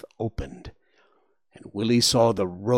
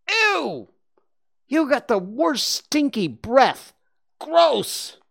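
put-on high squealing kid voice, grossed out; a child recoiling from a stinky face; disgusted boy; 5 dB louder, slower than usual. Boy disgusted by warthog breath.

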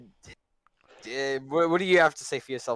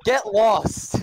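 raised, sharp dismissal; yelling at sister; 4 semitones higher, 4 dB louder than usual. Real, not acted. Host shooing a sibling out of the recording, raised annoyed yell. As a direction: call it out to shoo someone away. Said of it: "I think he's yelling at his sister".

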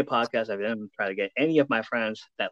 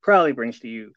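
ringmaster. Acted. Announcer intro of co-host.

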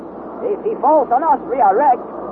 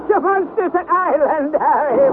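amused laugh; 6 semitones higher than usual. Acted. Guide amused at the mistake.

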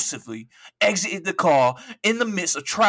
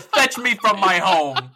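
mock Shakespeare; 4 semitones higher, 5 dB louder, slower than usual. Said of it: "He gave this shit to William Shakespeare".

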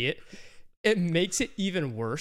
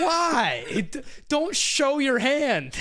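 laughing exasperation; 11 semitones higher, 4 dB louder, much slower than usual. Real, not acted.

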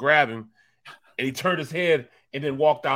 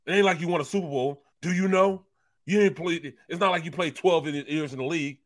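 lightly raised taunting voice; mocking producer; 5 semitones higher than usual. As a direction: mildly needle him, sarcastic. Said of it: "Mulhern was like".

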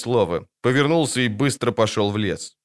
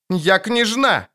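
high, drawn-out princess squeal; indignant wailing; 10 semitones higher, much slower than usual. A narrator's reading. Girl insists on her rank to Geralt, indignant squeal. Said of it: "хватит вопить".

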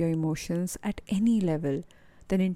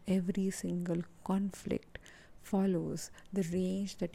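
guided meditation; 3 dB quieter than usual. Acted. Coach leading listeners to breathe and let tension go, calm guided-meditation voice. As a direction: guide listeners calmly, easing softer as it goes.

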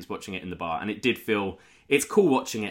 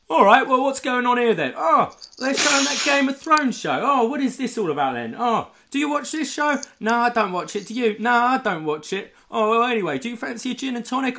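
high, loud mock British old man accent; hammed-up British geezer voice, much higher; 13 semitones higher, 3 dB louder than usual. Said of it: "I'm gonna do it in a British accent".

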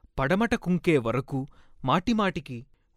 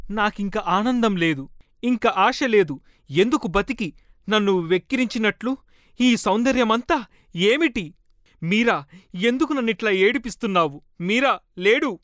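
despairing lament; 5 semitones higher than usual. Acted. Lovelorn woman's despairing lament.

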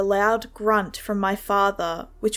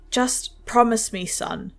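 voice cracking. Acted. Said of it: "His voice cracked".

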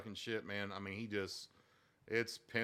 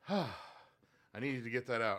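relieved son; much slower than usual. Retold or imitated. Son venting after a sigh.

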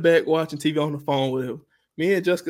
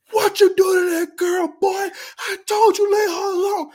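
angry mama; 14 semitones higher, 4 dB louder than usual. Retold or imitated. Mother storming down the hallway at her son, high scolding yell. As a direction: play the mom bursting in to scold her son. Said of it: "Mama come up, she running".

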